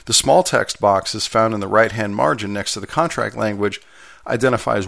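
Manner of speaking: formal text read with some life; lively read-aloud. Real, not acted. Steward reading a contract manual aloud for listeners, lively read-aloud. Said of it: "read it in a lively voice".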